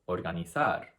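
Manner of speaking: Organizar stressed on the last syllable, ZAR; final-syllable stress. Shown as a demonstration. Teacher showing the consonant-ending rule, Organizar stressed on ZAR. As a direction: land firmly on ZAR in Organizar. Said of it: "the stress goes on the very last syllable".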